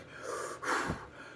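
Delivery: heavy puffs of breath, no voice; acted queasy breathing. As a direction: breathe out hard like you might puke. Acts out breathing over the bag.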